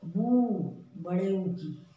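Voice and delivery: बू said with a long ऊ. Shown as a demonstration. Teacher to children: बू with a long ऊ. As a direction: stretch the ऊ in बू. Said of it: "इसलिए छोटे ऊ की बनाई है".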